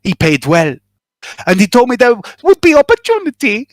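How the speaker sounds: a lightly voiced nervous informant, spilling his story; nervous smuggler confessing. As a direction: talk like a worried smuggler who finally confesses. GM voices smuggler NPC monologue.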